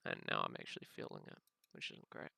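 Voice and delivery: talking around a sore bitten tongue; careful speech with a bitten tongue. Real, not acted. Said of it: "sorry if my voice sounds weird".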